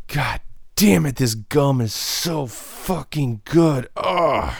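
hammed-up delight at something ordinary; mock gushing. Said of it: "You're just like".

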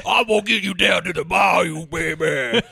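hammed-up old-money Southern accent; Southern aristocrat. Southern aristocrat to his baby, hammed-up Southern accent. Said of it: "like an old money aristocrat from the South".

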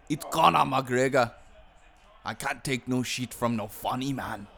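mock McGregor. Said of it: "He's like".

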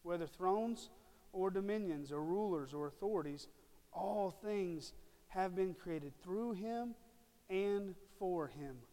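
slow, deliberate verse reading; measured pulpit proclamation; emphatic scripture reading. Acted. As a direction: read the verse out phrase by phrase, slowing to the end. Reads scripture aloud with force.

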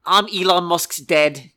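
slow, lightly South African boast; a hint of a South African accent. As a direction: play a South African magnate in his accent. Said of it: "South African accent".

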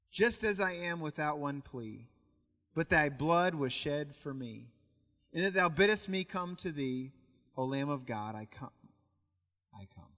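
hymn recitation. Acted. Preacher reciting Charlotte's invitational hymn, reverent recitation. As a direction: recite the verse in phrases, fading to near-hush.

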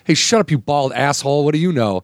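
mild mock snap at a stranger; retold snap. Diner rebuffing a friend who stepped in, mild retold snap. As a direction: play a touch of irritation, lightly imitated. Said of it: "He immediately snaps".

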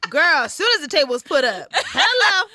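laughing through the words; giggling while telling it. Real, not acted.

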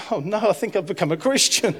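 amused disbelief at his own news; chuckling mock alarm; laughing. Laughing retelling of his conversion.

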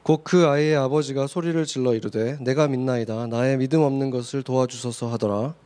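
measured, even-toned Bible reading; formal recitation of scripture. Acted. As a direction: read the verses out evenly to the congregation. Reads scripture aloud in turns.

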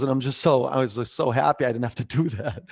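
imitating dad's giggly delight; happy, laughing retold quote; giggling. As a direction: retell it through a light giggle. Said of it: "he just started giggling".

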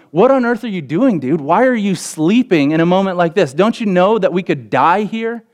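high, frantic pleading at a sleeping teacher; disbelieving what he sees; frantic disbelief. Retold or imitated. Disciples crying out to sleeping Jesus, high and frantic. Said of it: "They're essentially going".

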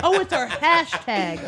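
laughing realization. Real, not acted. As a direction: laugh it out, slowly.

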